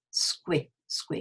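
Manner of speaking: "Squid" as a bare skwi, no d; SKW cluster. Shown as a demonstration. Teacher joins the three sounds, isolated syllable. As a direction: run s, k, w together in "squid". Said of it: "you've got to have a w".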